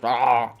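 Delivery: growly "ah" of a biter; mock attack sound; imitated chomping noise. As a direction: mimic a chomp with an open-mouthed noise. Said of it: "she even did the noise".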